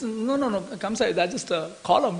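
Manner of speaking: soft, hurried reassurance; soothing. Retold or imitated. Servants calming Kamsa about a column, soothing. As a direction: talk him down quietly.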